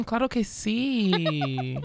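drawn-out "Claro que sí"; slow playful Spanish. Pretend. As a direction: savor each word teasingly.

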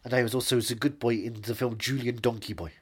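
put-on measured German-accented English; German film-director accent. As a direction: philosophize in a thick German accent.

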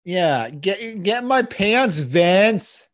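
hammed-up wrestler promo call; The Rock impression. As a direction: shout it like a ring promo. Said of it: "The Rock to tell Vince McMahon".

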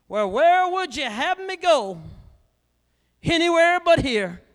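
high, loud, whining demon voice; pleading demon. Acted. The sickness demon pleading with the preacher, high and loud. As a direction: beg like a cornered demon.

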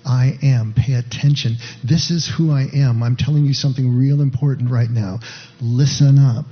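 firm, insistent call to pay attention; voicing an emphatic declaration; emphatic, all caps. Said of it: "It's like putting it in all caps".

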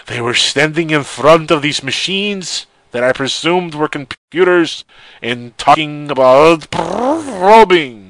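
mildly hammed-up witness statement, slow; lightly voiced witness. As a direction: read the quote as a spooked eyewitness. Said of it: "and I quote".

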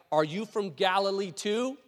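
mildly mocking, drawn-out question; slow taunt rising at the end. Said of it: "They're mocking him".

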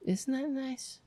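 high, soft and tearful. Real, not acted. Host moved by a bird dying surrounded by love, tearful. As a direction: choke up tenderly, voice lifting high and small. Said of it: "I'm crying".

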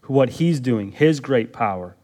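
normal talking voice

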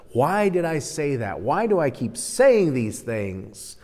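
mock exasperation at oneself, slowing down; frustrated self-reproach. Preacher voicing our self-talk after a slip, mildly frustrated. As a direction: chide yourself with mild exasperation. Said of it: "we get frustrated with ourselves".

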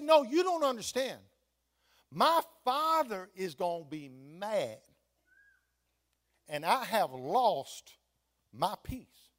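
emphatic, drawn-out mock distress; fretting boy. Fretting boy to the man about his father, imitated distress. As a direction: play an upset boy insisting, words stretched. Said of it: "saw the young boy fretting".

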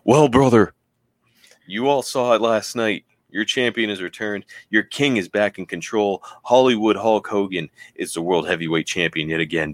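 lightly voiced boastful wrestling champion; Hulk Hogan. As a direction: open big, then settle into a light promo voice. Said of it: "Bischoff holds the mic for Hulk".

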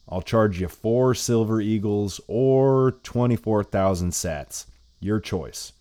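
put-on old lady voice.

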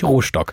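"Rostock" said with a long o and sh, "Rohschtock"; mock mispronunciation. Shown as a demonstration. Correcting a friend on the town name, mock mispronunciation. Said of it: "falsch aussprechen".

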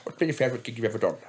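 brisk stock interviewer voice; mock interviewer. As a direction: play a formal interviewer. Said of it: "an interview format where it's like".

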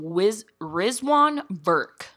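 hushed, very slow announcement; slow dramatic whisper. Pretend. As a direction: drag it out in a whisper. Drawn-out name announcement.

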